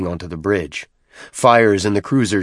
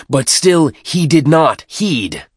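much higher and louder, declaiming; rousing the pack; 7 semitones higher, 5 dB louder, slower than usual. Acted. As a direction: stir up the warriors against him. Tartarus rouses the pack.

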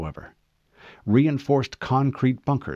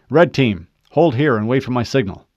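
firm, louder squad command; commanding order; 6 dB louder than usual. Acted. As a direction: give the order to hold firmly. Fred orders team to hold.

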